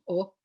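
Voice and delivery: slow learner's sounding-out of LOOK; sounded out. Retold or imitated. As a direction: LOOK pulled apart into separate sounds. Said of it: "And she went".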